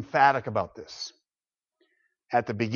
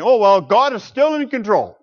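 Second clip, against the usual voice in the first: a lighter, higher shrug of a line; mock shrugging resignation; 8 semitones higher, 9 dB louder than usual. Preacher mocking people who shrug and say this, in a mock resigned voice. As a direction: toss it off like someone giving up. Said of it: "shrugging your shoulders and saying".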